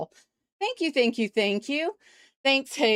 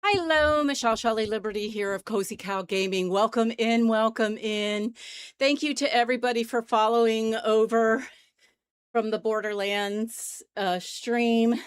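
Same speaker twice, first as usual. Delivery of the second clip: out of breath. Real, not acted. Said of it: "sorry, I'm out of breath".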